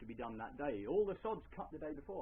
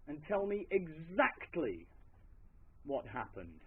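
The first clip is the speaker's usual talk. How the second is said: master questioning farmhand; 5 dB louder, slower than usual. Acted. Master sternly questions his farmhand.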